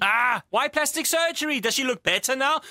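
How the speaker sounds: mildly heated, indignant questioning; angry. Acted. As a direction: protest as an upset husband. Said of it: "why are you getting angry".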